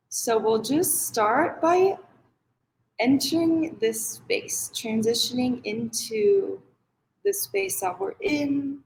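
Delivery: unhurried guided meditation with long pauses. Acted. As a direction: ease them into the practice, pausing between phrases. Leads a meditation.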